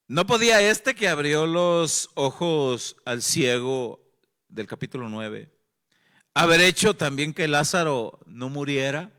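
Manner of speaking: critics' complaint. Retold or imitated. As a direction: throw their accusation out loud. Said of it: "algunos de ellos dijeron". (reclamo indignado de los críticos)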